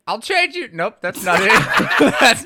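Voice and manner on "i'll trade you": false start in a high, loud Indian accent. Shown as a demonstration. Co-host trying out his practised Indian accent. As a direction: launch into a hammy Indian accent. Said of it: "I was working on an Indian one".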